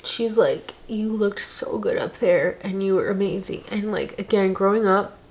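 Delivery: tearful. Real, not acted. Crying while retelling.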